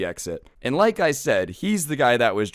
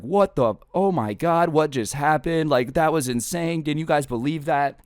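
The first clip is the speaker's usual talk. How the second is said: stunned disbelief; 5 semitones higher than usual. Retold or imitated. Stunned friends after the escape.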